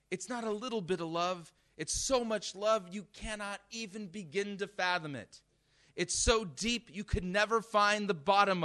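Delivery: high, impassioned pulpit climax; fervent preaching. Real, not acted. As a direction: build to a loud, urgent proclamation. Preacher peaks on God's love.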